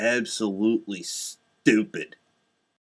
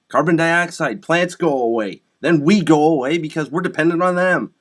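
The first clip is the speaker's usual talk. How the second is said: raised voice, driving each step home; exasperated lecturing; 4 semitones higher, 5 dB louder than usual. Real, not acted. Telling elementary science to adults, exasperated and forceful. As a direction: insist on it, loud and fed up.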